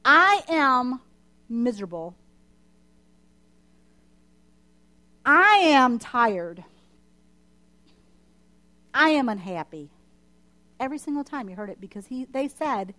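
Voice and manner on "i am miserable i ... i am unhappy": loud, drawn-out whiny "I am" lines; mock complaining Israelites. Pastor voicing the grumbling Israelites, mock whiny. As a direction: ham up the grumbling wanderers. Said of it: "complaining about the lack of food".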